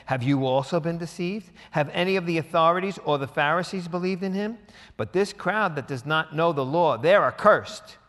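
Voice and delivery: loud, high and indignant, slowing at the end; indignant Pharisees. Acted. Pharisees rebuke their officers, loud and indignant. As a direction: scold the crowd as cursed.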